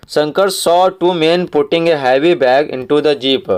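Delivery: very slow, every word spaced out for the class; slow read-aloud. Shown as a demonstration. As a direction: read the line slowly so pupils can follow. Teacher reads story passage slowly.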